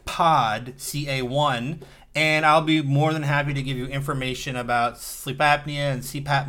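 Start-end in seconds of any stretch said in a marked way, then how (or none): 0.1-1.8 slowly spelled out; slow and clear. Shown as a demonstration. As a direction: repeat it very carefully. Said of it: "that is Daddy Home".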